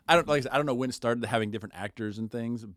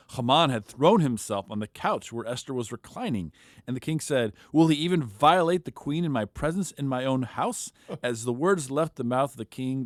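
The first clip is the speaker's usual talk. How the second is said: an expressive Bible reading; scripture reading. Acted. A podcaster reading Esther aloud to his co-hosts, expressively. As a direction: read the chapter like a dramatic story.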